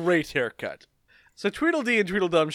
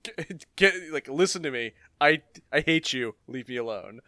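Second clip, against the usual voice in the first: bored deadpan; 3 semitones lower, faster than usual. Retold or imitated. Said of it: "He's like".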